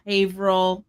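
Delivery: "Haverhill" as HAY-vrull, two syllables; local pronunciation. Shown as a demonstration. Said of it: "not Haverhill".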